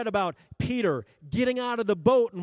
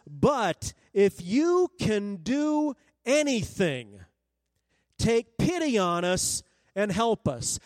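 distraught plea; slower than usual. Retold or imitated. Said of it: "this father is distraught".

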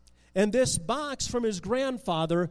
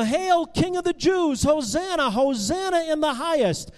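higher, louder hailing cry; crowd cheering; 6 semitones higher, 4 dB louder than usual. A narrator's reading.

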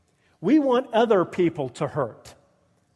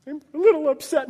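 small, higher, quick mock whimper; mock mild upset; 6 semitones higher, much faster than usual. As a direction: play down a little upset, higher and hurried.

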